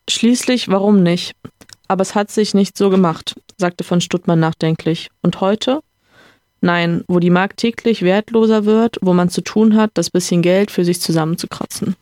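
reading a novel aloud with light character voices; story reading. A narrator's reading. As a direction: read the dialogue scene like an audiobook. Reads novel passage aloud. (vorgelesene Romanszene)

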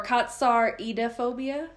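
katsaridophobia with a different syllable leaned on, rising like a question; shifted emphasis. Shown as a demonstration. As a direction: try out katsaridophobia with shifted stress, unsure. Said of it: "Maybe I put the wrong emphasis".

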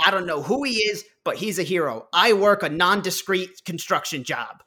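light fake New York accent; casual New York guy voice, lightly done. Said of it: "a fake New York accent going".

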